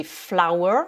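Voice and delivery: "flower" with a drawn-out sound; long vowel sound. Shown as a demonstration. Teacher models English to French learners, long sound in "flower". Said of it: "on fait un son long".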